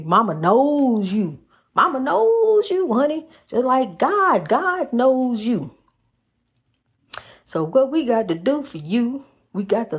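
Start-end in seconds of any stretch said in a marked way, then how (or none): 1.8-5.7 emphatic exclaim. Real, not acted. Praising mama.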